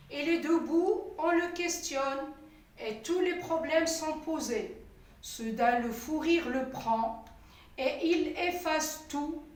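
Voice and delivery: measured, clearly articulated poem reading; poem recitation. Shown as a demonstration. Teacher reads the poem to learners, measured recitation. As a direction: recite line by line with pauses between verses. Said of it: "je vais vous lire".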